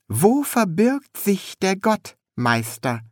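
high, curious apprentice voice; high-pitched inquisitive apprentice; young apprentice, curious. A narrator's reading. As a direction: ask it high, full of naive wonder.

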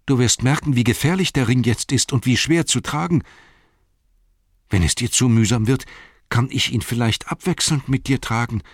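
a faithful hobbit, humble and earnest; Sam's voice. Acted. Sam speaks in audiobook.

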